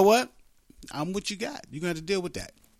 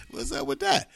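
indignant dad; 11 semitones higher than usual. Retold or imitated. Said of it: "dads be like".

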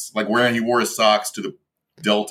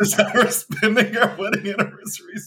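laughing; 11 semitones higher than usual. Real, not acted. Laughing through his own joke.

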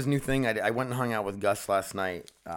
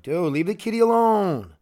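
loud, high scold at the dog; 11 semitones higher, 9 dB louder than usual. Real, not acted. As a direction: snap at the dog to leave the cat. Scolding dog about the cat.

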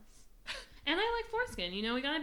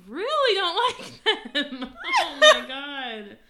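slow, laughing and higher; laughing disgust; 8 semitones higher, 14 dB louder, much slower than usual. Real, not acted. Reacting to crude words list.

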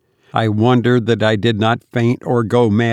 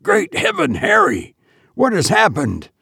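crying out; 9 semitones higher than usual. A narrator's reading.

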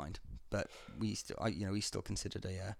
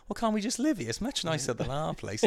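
whiny pleading Celt; 8 semitones higher, 4 dB louder than usual. Retold or imitated. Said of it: "you'd have been the one going".

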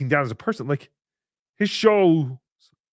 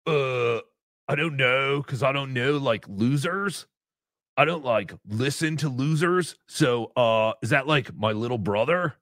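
put-on slacker surfer voice. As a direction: mumble it like a dim surfer. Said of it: "Chad does not talk like a surfer".

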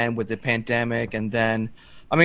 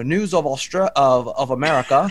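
put-on deliberately awful Aussie newsreader accent; bad Australian accent. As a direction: worst possible Australian accent. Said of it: "I'll do my worst Australian accent".

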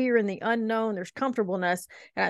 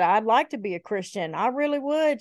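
put-on girl's voice; 2 semitones higher than usual. Girl telling the speaker she'd like to be Christian, lightly imitated. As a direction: lightly imitate a girl wishing she could. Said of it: "a girl ask me one time".

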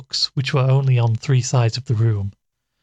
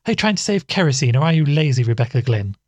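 indignant cry; 3 semitones higher than usual. Acted. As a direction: fire the question at her sister. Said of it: "cried Missus Brigham".

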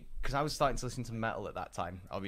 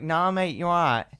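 loud, rough London chav voice; chav accent; 6 semitones higher, 11 dB louder than usual. Retold or imitated. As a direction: put on a cheeky London chav voice. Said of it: "I spoke proper chavvy back then".

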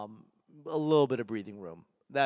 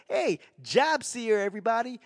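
put-on Boston-accented promo greeting, pitched up; 9 semitones higher than usual. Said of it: "steer away from the Boston accent".

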